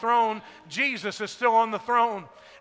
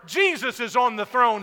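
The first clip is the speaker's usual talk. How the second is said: Jesus proclaimed loud at full preaching force; shouted proclamation; 2 semitones higher, 5 dB louder than usual. Real, not acted. Pastor to the congregation, declaring loud. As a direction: ring it out over the congregation. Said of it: "I've been yelling and shouting".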